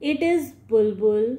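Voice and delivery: understated shout. Acted. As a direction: call out the horse's name. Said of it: "shouted Ramzan's father".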